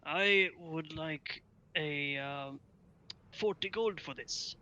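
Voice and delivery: slow merchant voice; drawn-out shopkeeper. Acted.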